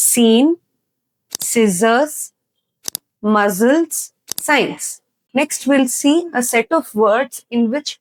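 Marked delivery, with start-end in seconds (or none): 0.1-4.9 "ಸೀನ್", "ಸೈನ್ಸ್" with plain s, "ಸಿಸರ್ಸ್", "ಮಸಲ್ಸ್" with z; word-list demo, no k in "ಸೀನ್, ಸಿಸರ್ಸ್, ಮಸಲ್ಸ್, ಸೈನ್ಸ್"; silent C. Shown as a demonstration. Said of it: "correct ಆಗಿ ಹೆಂಗ್ pronounce ಮಾಡ್ತಾರೆ ನೋಡಿ". ("ಸೀನ್", "ಸೈನ್ಸ್" ಸ ಶಬ್ದ, "ಸಿಸರ್ಸ್", "ಮಸಲ್ಸ್" ಝ ಶಬ್ದ)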